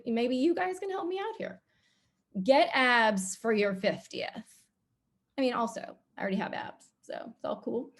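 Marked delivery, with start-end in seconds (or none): 2.4-4.6 slow, deliberate headline read; reading a headline aloud. Shown as a demonstration. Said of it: "I'm just gonna read this".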